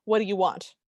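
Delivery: imitating a grating Midwestern accent; a light mock Midwestern twang on the question. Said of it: "his accent is so grating".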